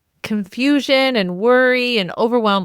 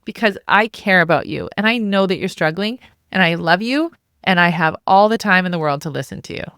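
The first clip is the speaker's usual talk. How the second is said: kind clear mom. Shown as a demonstration. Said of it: "fair, compassionate, clear, but very kind mom".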